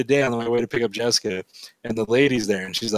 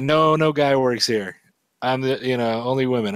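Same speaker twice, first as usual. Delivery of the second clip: broken English; 2 semitones higher than usual. Retold or imitated. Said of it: "really bad broken English".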